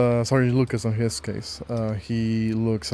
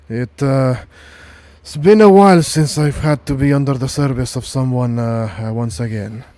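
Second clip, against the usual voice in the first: put-on weary old soldier voice; a worn-out, tired sergeant; 5 dB louder than usual. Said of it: "a tired sort of, like, tone of voice".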